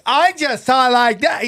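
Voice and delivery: lightly put-on campy protest; a hint of camp impersonation; mock queenie voice. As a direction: imitate a super queenie man insisting. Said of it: "like, super queenie gay guys".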